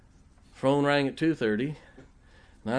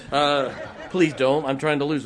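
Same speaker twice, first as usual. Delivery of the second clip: laughing; 6 dB louder than usual. Real, not acted. Joking about being given pie.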